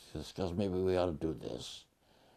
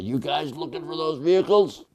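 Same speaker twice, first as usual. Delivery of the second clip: raised, higher-pitched shout to the escapees; calling out; 10 semitones higher, 8 dB louder than usual. Retold or imitated. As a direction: call out loudly as an offer of help. American soldier calls out to escapees.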